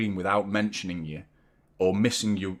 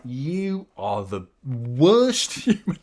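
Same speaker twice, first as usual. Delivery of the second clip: laughing quote; much slower than usual. Retold or imitated. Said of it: "Every morning she's like".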